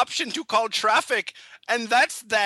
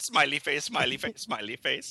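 each smiley face softer and lower, dying away; fading out; 8 semitones lower, 6 dB quieter than usual. Acted. Signing off the fake blog post, fading away. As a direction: trail off into nothing.

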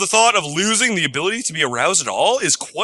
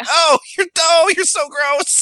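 disgusted; 12 semitones higher than usual. Real, not acted. Reacting to gross Jell-O post.

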